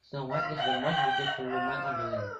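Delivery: fast, otherworldly mirror voice; magic mirror. Acted. Magic mirror telling the queen the truth, quick and eerie. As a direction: answer like an enchanted mirror.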